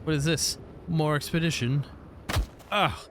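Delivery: sudden startled rise; surprised. Real, not acted. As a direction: caught off guard by something. Startled by a discovery.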